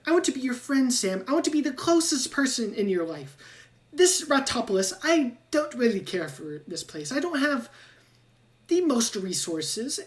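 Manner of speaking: high, quick rat-scientist voice. Acted. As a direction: play a scheming little rat pitching a deal.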